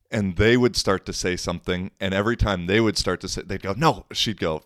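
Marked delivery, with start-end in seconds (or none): 3.8-4.1 high imitated cut-off; retold angry interruption. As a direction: cut them off, mimicking her. Retold woman cutting others off.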